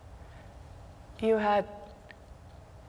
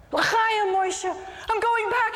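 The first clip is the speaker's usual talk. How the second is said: put-on much higher, laughing, slowed-down drunken toast; laughing tipsy cheer; 13 semitones higher, 4 dB louder, much slower than usual. Drunk Moshe decides.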